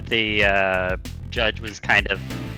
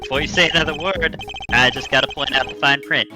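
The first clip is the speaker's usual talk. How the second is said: lightly voiced rogue attorney; breezy, cocky defense lawyer; easygoing rogue lawyer. Fender objection and terms.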